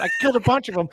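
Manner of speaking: high, loud imitation of a buddy yelling over the mic; mock excited yell. Retelling a teammate yelling into his mic, high loud mock yell. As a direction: yell it like you're hyped mid-battle. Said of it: "Cole screaming at the top of his lungs".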